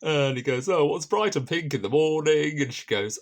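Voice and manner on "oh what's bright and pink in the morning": higher and louder mock riddle voice; acting out a cheeky riddle. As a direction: toss the riddle out, hammed-up and loud. Squires's riddle acted out.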